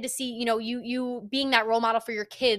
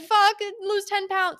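higher, louder, carefree "Fuck it"; impulsive outburst; 10 semitones higher, 5 dB louder than usual. Retold or imitated. Past self blurting out a summer goal, reckless and loud. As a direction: toss the goal off like a dare. Acting out setting own goal.

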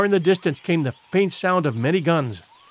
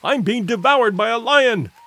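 high, panicked pleading; comic terror, high and urgent; shrieked plea; 5 semitones higher than usual. A narrator's reading. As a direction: beg to be let in, voice pitched up. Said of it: "he shrieked".

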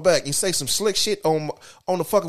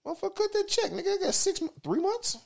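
greedy hype; 13 semitones higher, 5 dB quieter than usual. Retold or imitated. Voicing a greedy singer's choice.

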